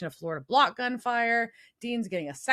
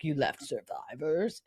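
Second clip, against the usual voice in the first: creepy; 4 semitones lower, 3 dB quieter than usual. Retold or imitated. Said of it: "Mister Ketch creepily is like".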